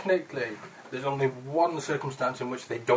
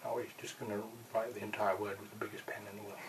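whisper; 6 dB quieter than usual. Real, not acted. Whispered aside at the table.

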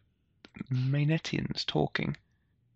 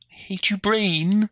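higher, nasal-free mock nerd whine; comic book guy voice; 6 semitones higher, slower than usual. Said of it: "You totally sound like comic book guy".

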